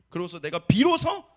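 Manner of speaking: usual speaking voice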